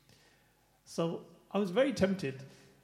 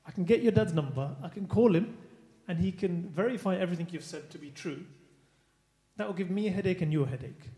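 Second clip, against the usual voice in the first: louder, firm warning, spelling out the consequences; 6 dB louder than usual. Retold or imitated. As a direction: lean on him till he cracks. Teacher confronting lying pupil.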